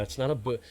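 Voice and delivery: "boot" with a long oo vowel; "boot" for about. Shown as a demonstration. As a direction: say "boot" with oo, as the mocked Canadian "about". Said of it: "I'm just clarifying for language".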